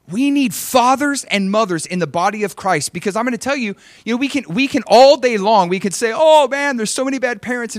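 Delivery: high-pitched, emphatic pulpit voice; impassioned preaching. Real, not acted. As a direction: preach with urgent, rising energy.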